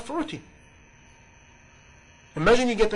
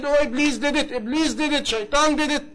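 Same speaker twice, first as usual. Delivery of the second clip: a higher, lightly whiny mock excuse; half-mocking plea shifting blame; mock whining; 6 semitones higher than usual. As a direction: imitate the blaming excuse, pitched up. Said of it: "keep crying to Allah and say".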